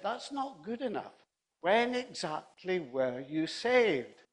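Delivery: mildly acted stern cross-questioning; lightly voiced demanding young evangelist; stern insistence. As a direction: press for an answer, drawing out the question. Young evangelist presses confused old man.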